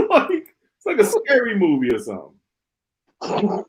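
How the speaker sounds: amused laugh through the words; laughing at a spooky-sounding clip. Real, not acted. Vlogger laughing at the president's clip, amused.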